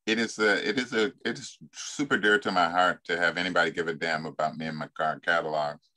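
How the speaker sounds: ordinary talk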